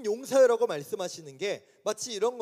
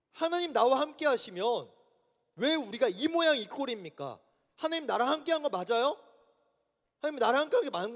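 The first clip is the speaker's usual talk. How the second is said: indignant protest; 4 semitones higher than usual. Retold or imitated. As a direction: confront God like a fed-up man demanding answers. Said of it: "이런 말투가 지금 십삼 절의 말투였다고요".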